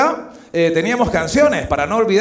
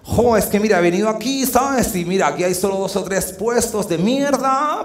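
mock complaining tourist. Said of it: "godo girl mocked again".

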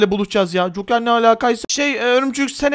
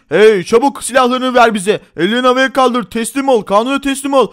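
police command; 4 dB louder than usual. Acted. Police ordering surrender.

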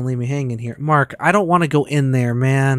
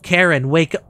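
Karen, wake up called louder; louder plea; 6 dB louder than usual. Real, not acted. Gamer calling louder to wake a companion. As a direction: push the last Karen, wake up up in volume.

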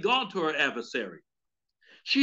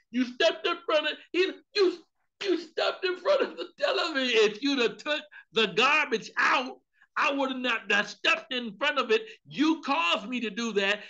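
upset husband; 3 semitones higher than usual. Retold or imitated. Husband blaming wife for the missed touchdown, whiny.

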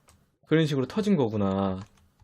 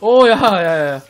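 alarmed shout; 5 semitones higher, 10 dB louder, slower than usual. Real, not acted. Alarmed at game danger.

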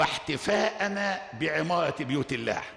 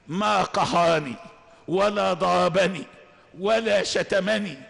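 rising emphatic preaching; 2 semitones higher, 4 dB louder than usual. Real, not acted. Preacher builds emphatic list.

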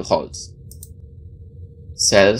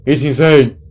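exasperated outburst; 7 semitones higher, 11 dB louder, slower than usual. Acted.

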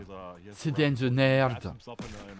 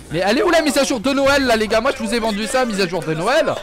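loud mock complaint; 6 semitones higher, 9 dB louder than usual. Real, not acted. Complains about missing update.

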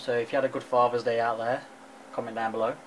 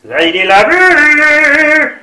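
slow, high, loud grand announcement; posh butler voice; 12 semitones higher, 15 dB louder, much slower than usual. Acted. Dad announces bath in put-on voice.

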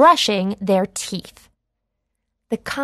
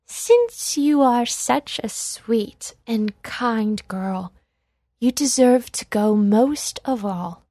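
kindly. Acted. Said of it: "asked kindly".

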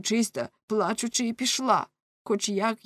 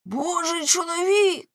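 much higher, slow, mocking cry; scornful exclamation; 10 semitones higher than usual. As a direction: throw her words back in disgust. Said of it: "вигукнув Ламе". (зневажливий вигук)

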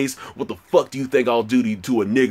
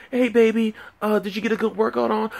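high falsetto girlfriend impression; 12 semitones higher than usual. Girlfriend greeting him after the gym, mock falsetto voice. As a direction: put on a very high, sweet-talking girlfriend. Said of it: "She's like".

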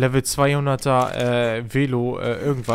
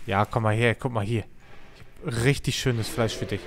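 softer, lower sweet-talk; coaxing an animal; 3 semitones lower, 4 dB quieter than usual. Real, not acted. Streamer luring a wild dino with meat, soft coaxing. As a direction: lure it in gently with food.

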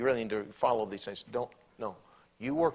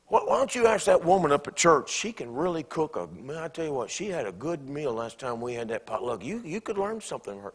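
critical husband; 3 semitones higher, 5 dB louder than usual. Acted. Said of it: "critiquing your wife".

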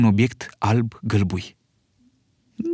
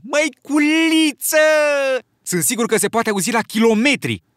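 amazed; 12 semitones higher, 3 dB louder than usual. Acted. Piggy amazed by conch sound.

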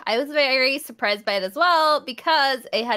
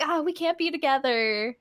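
lightly acted lovelorn lament, a little quick; a touch of hammed-up angst; mock angsty; 4 semitones higher, 3 dB quieter, faster than usual. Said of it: "like, some super angsty, sad".

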